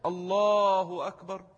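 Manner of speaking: slow الله with a very long second vowel; مد اللام. Shown as a demonstration. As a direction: hold الله long after the L, then أكبر. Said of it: "لما بتمد اللام". (مدّ طويل بعد لام «الله»)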